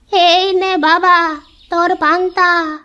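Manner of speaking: put-on kindly old granny offering food; old woman. Old woman tells the boy she'll fetch food, lightly kindly.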